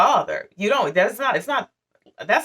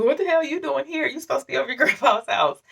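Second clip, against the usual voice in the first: mother's attitude; 6 semitones higher, faster than usual. Retold or imitated. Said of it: "after she had an attitude".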